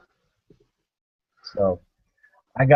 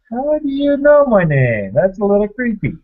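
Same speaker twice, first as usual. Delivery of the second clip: high, loud, freaked-out question; mock alarm at a stranger knowing his name; startled; 8 semitones higher, 5 dB louder than usual. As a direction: jump up in pitch, half alarmed. Retold alarmed reaction.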